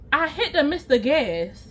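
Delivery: lightly voiced thick-tongued confession; a hint of a swollen-tongued friend; imitated slurred friend. Friend explaining symptoms, lightly mimicked impaired speech. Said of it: "why are you speaking the way that you're speaking".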